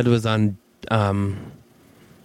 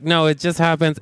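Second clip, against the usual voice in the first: words pushed out through clenched teeth; through gritted teeth; 3 semitones higher than usual. Retold or imitated. Answering Dante about her jaw, through gritted teeth. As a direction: keep the jaw shut and mumble it tight. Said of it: "through gritted teeth".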